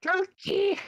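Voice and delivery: excited shout. Real, not acted. Excited yell at the screen.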